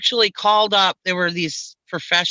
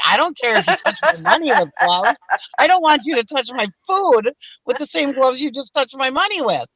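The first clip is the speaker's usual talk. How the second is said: indignant rant; 6 semitones higher than usual. Retold or imitated. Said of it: "I was so mad".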